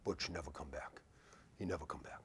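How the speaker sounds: a low, soft imitation of a Native American accent, Butch never come back. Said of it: "The Native American".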